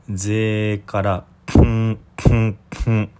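ぜ then ん through the nose, mouth closed; swallowed tsu. Shown as a demonstration. Teacher showing the nasal ending of ぜつ. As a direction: hum ん after ぜ instead of つ. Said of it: "こんな風な発音なんですね。".

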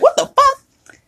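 high indignant "What the fuck?" then a brash "fuck you"; outraged fuck. Shown as a demonstration. Showing listeners the outraged, combative fuck. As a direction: show the angry, confrontational fuck. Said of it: "different tones mean different".

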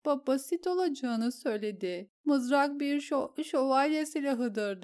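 a shaken noblewoman stumbling over her words; distraught lady. Acted. Lady explains the duel plan to the queen, tearful and stammering.

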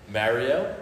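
Jersey "Mario", first syllable like marry; owning a contested Jersey pronunciation; Jersey accent. Shown as a demonstration. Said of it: "I say Mario".

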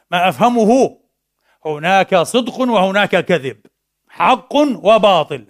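king laying down the law slowly and loudly; emphatic king. Acted. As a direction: hammer each word down like a blunt ruler. King declares his simple view.

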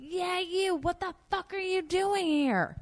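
high, loud, brassy mock Roseanne; imitating a tough star; brash boss voice. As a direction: demand it with rough amusement. Roseanne confronting her.

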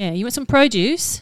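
light Australian accent. Shown as a demonstration. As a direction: ask it like an Aussie shopkeeper. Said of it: "I could do Australian".

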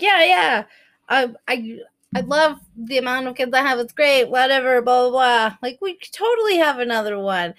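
brightly over-agreeable, talking herself into it; mock enthusiasm. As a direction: play up the breezy, eager yes. Acting out her eager change of mind.

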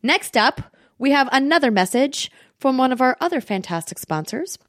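upbeat podcast ad read with lifted emphasis; sponsor ad read. Acted. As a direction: sell it to the listeners in a lively host-read. Reads a sponsor ad.

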